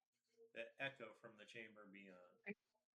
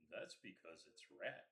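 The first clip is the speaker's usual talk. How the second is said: low goblin voice; 5 semitones lower than usual. Acted. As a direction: lower goblin grumble. Goblins chatting.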